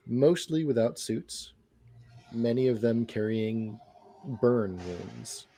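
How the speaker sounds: slow, measured scene setting; game master narration. Acted. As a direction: paint the scene slowly for players.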